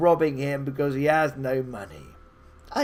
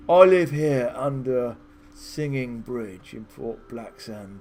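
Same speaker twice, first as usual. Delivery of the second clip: lightly voiced calm old wizard; a hint of a weary old hermit, unhurried; calm old wizard turning them away; 3 semitones lower than usual. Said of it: "starts to speak in a calm voice".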